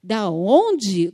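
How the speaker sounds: curt, loud "Da onde?" with a falling end; brusque receptionist. Retold or imitated. Receptionist questioning an unknown caller, curt and loud. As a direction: bark "Da onde?" like a gatekeeper.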